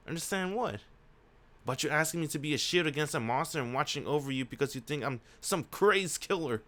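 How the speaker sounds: lightly acted incredulous heroine; hint of woman character.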